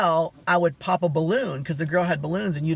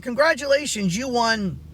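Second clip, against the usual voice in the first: excited announcement; 5 semitones higher than usual. Retold or imitated. Retold prize announcement to winner.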